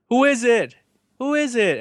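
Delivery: high, overly sweet soap-opera voice; mock soap dialogue. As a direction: ham up a TV drama line, spelling everything out. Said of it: "So everyone talks like this".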